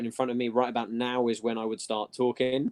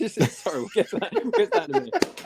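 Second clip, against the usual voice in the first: high-pitched, through laughter; amused, voice riding up as you laugh; laughing apology. Real, not acted. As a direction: apologize while giggling. Laughing at his own photo joke.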